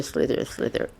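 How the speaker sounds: breathy whispered slither. Retold or imitated. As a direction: hiss it out softly. Mimicking crossing legs sound.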